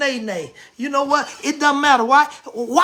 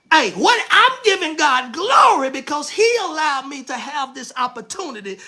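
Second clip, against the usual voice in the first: joyful shout. Acted. Dancer's joyful outburst.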